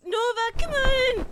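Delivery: loud, slow call to wake her; exasperated yell. Acted. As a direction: shout across the room at a sleeper. Shouting to wake sleeping friend.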